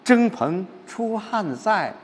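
slow, weighed-down reading; pensive, brooding recital of the verse; gloomy recitation. Shown as a demonstration. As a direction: let the gloom drag the words. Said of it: "这还是在郁闷当中".

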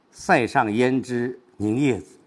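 slow, weight on 凝夜紫; stress at the end. Shown as a demonstration. Teacher showing where stress falls, slow 凝夜紫. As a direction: save the weight for a slowed 凝夜紫. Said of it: "重的是放在后边".

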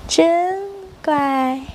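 put-on very slow, stretched-out baby talk; cooing praise. Mother praising her calmed baby, slow coo. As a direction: linger lovingly on each word of praise.

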